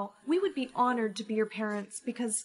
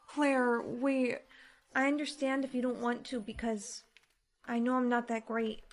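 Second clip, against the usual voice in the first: softer, sad confession; 4 dB quieter than usual. Acted. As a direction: admit it quietly, hurt. Sad confession about adoption.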